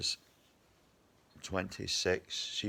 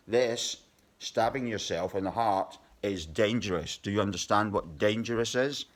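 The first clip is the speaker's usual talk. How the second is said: mock lecture; 2 semitones higher, 4 dB louder than usual. Real, not acted. Lecturing idiots about knives.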